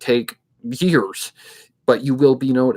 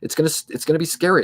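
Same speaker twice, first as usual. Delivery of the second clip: scary voice; 4 semitones higher, faster than usual. Shown as a demonstration. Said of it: "I'm gonna go to a voice like that".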